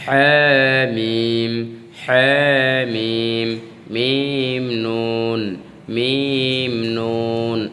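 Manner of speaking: হা pressed from mid-throat in a recited drill. Shown as a demonstration. Teacher drilling pressed হা with মিম. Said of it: "হলকের মধ্যখানে pressure দিতে হবে".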